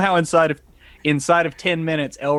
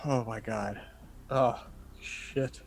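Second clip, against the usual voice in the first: shocked whisper; 11 dB quieter, slower than usual. Acted. Xander waking in shock.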